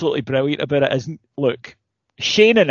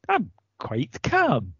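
mildly acted serene relief; calm. Fan recalling an unusual feeling during the match, calm. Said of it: "that unusual feeling of the last ten minutes".

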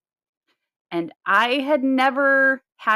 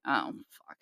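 mock dismay; 9 semitones lower, 9 dB quieter than usual. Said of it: "I'm like".

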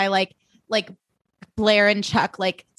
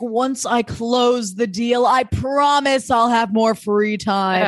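mocking slow promise; 2 semitones higher, slower than usual. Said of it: "And he's like".

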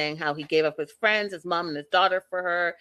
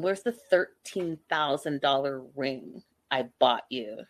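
mocking Ed; 5 semitones lower than usual. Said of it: "Who says, who talks like that".

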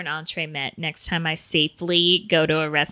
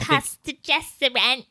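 mock Irish accent, pitched up; hammed-up Irish brogue; 7 semitones higher than usual.

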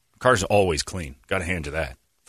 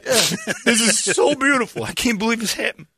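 mock awe; 9 semitones higher than usual. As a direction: fake rapture over a gaudy ring.

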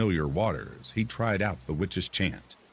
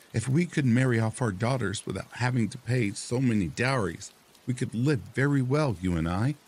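higher, wheedling nagging wife; 6 semitones higher than usual. Acted. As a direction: coax him like a nagging wife. Wife character voice.

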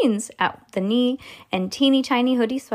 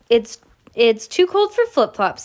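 just after a sip of coffee; while sipping a drink; 3 semitones higher, 5 dB louder than usual. Real, not acted. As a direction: talk with coffee still in mouth. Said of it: "Sorry, I'm drinking coffee".

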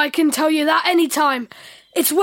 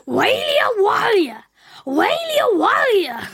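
put-on baby wail; 3 semitones higher than usual. Shown as a demonstration. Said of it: "can you have a go?".

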